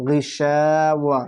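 গিশাওয়া stretched, vowels held; slow blended word. Shown as a demonstration. Teacher builds the word step by step, slowly. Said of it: "ওয়াও জাবার ওয়া".

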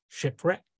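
Shipwreck said with a rising tune. Acted. Neptune listing wrecks, rising Shipwreck. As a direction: lift the end of Shipwreck. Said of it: "in the voice of Neptune".

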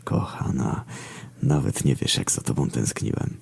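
very soft, low whisper; tender whisper. A narrator's reading. Rider to his long-missed mare, tender whisper. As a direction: whisper it lovingly, barely voiced. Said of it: "szepnąłem".

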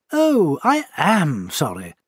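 small clear voice, slow and concerned; gently apologetic, unhurried; a little figure apologising to the hurt owl; solicitous. Acted. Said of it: "in a solicitous tone".

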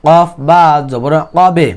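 "কবে" with the stopped b released in a bounce; কলকলা. Shown as a demonstration. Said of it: "এই কলকলা কেমনে বলবো?". ("কবে" ব-তে ধাক্কা দিয়ে কলকলা)

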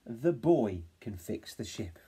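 put-on the boy can fix the ship slowly; slow sentence. Shown as a demonstration. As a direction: stretch the longer sentence. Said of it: "extended it into a longer sentence".

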